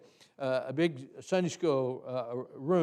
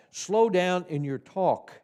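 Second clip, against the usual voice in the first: slow, deliberate read of the line; slowly; slower than usual. Shown as a demonstration. Teacher reading the tip slowly to trainees. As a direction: say it slowly, practising what it says. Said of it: "put in the word talk".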